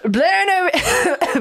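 high, slow drawn-out Scottish words; slow Scottish accent. Pretend. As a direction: stretch "Blown over" out slowly in a Scottish accent. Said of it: "she's falling back to Scottish".

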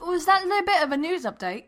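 high, playful put-on British voice; British accent. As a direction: ask teasingly in an amateur British accent. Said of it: "Jen is using a British accent".

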